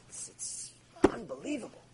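breathless hushed awe; awed whisper. Real, not acted. A rabbi in awe of the sages' fear of God, whispering. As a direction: barely breathe the words in wonder.

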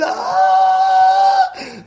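very high, loud sung-out shriek; shocked shriek. Retold or imitated. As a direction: let out a shrill cry of shock. Glass bowl chips.

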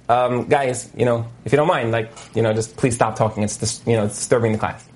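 lightly voiced meek plea to the class; mild polite request. Rabbi's mild request to class, retold.

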